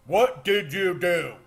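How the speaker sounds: loud, high anguished demand; Thor. Retold or imitated. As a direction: imitate a horrified hero shouting at the villain. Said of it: "you have Thor going".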